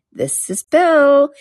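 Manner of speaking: slow emphatic build; drawn-out realisation. A narrator's reading. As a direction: stretch each word, rising high. Alice to herself before kicking.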